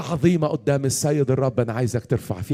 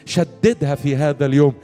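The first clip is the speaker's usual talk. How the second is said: raised, insistent preaching prayer; fervent prayer leading; 4 semitones higher, 4 dB louder than usual. Real, not acted. Preacher praying for the weary in the hall, fervent prayer. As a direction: plead for the congregation with rising urgency.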